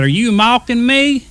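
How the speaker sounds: high, indignant tongue-tied imitation; tongue-tied speech. Tongue-tied engineer challenges car man, high tongue-tied voice. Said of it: "the engineer was tongue-tied".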